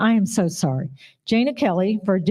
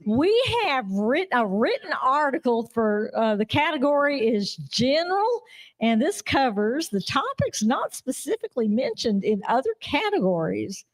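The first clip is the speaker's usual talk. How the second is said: put-on Texan accent; 3 semitones higher, 4 dB quieter than usual. Host announcing the category in mock Texan accent. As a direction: exaggerate the Texan twang, with y'all. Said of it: "Or you just want me to go back to regular?".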